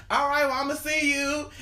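high, loud casual goodbye; breezy brush-off. Retold or imitated. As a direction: brush them off lightly. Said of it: "I'm gonna hit you with one of those".

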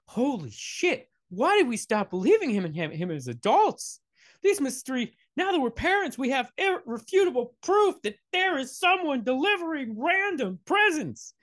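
high-pitched mock revelation; astonished parents. Parents realizing Santa is real, high mock amazement. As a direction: build to a squeaky, hammed-up frenzy of disbelief.

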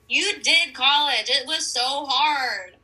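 slow, exaggerated sympathy; slow mock consoling. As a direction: say it slowly like comforting a child.

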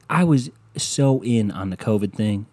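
a hint of a folksy president; mock presidential address. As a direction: lightly play an old president. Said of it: "Let me talk to you like Bill Clinton or George H W Bush".

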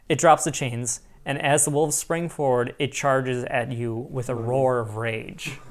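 measured read, slowing at the end; game master narration. A narrator's reading. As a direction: narrate the attack, drawing out the last words. Game master reads scene.

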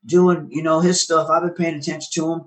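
lightly voiced Heath, upbeat and friendly; imitating Heath. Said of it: "he goes".

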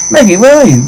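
acted searching call. Searching for missing Maggie.

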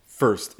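"first" said firmly with a full American R; first with clear R. Shown as a demonstration. Coach confirming for the learner, "first" with a clear R. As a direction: model "first" with the R clearly pronounced. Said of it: "That's much better".

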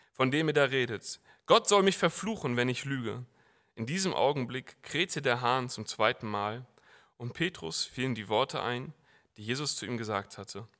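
dramatic scripture reading; Bible reading. Acted. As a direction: narrate the denial with rising tension. Reads Mark 14 aloud. (dramatische Bibellesung)

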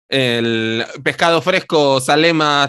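nasal fish-seller call. Retold or imitated. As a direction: call out the fish through the nose. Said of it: "tú has hablado un poco con voz nasal".

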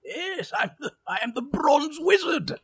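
grand self-introduction. Acted. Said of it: "introduces himself in character".

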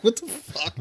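high, mock-bewildered outburst; baffled reaction. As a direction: exclaim it in exaggerated disbelief. Acting out baffled reaction to coach.

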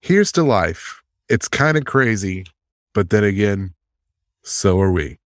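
raising a toast. Acted. Toast after being asked.

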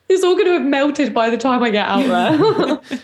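laughing it out, let down; a rueful laugh through the words; mock despair with a laugh; laughing disappointment. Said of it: "I was like".

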